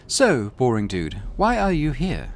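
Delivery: high, cold commanding woman's voice; imperious rogue trader. Acted. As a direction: lay out the test like a superior.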